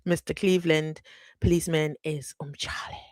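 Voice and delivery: giggly breathless whisper; whispered through laughter. Real, not acted. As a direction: whisper it while still cracking up. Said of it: "I'm laughing because".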